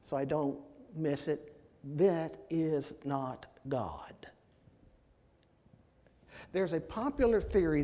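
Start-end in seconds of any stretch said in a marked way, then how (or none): 2.0-4.1 slow, deliberate emphasis on each word; emphatic. Real, not acted. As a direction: spell it out slowly so nobody misses it. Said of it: "let me say this emphatically now".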